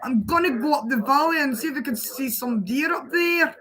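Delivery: trying on thick Scottish slang; Scottish accent attempt. Shown as a demonstration. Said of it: "see, it doesn't suit me".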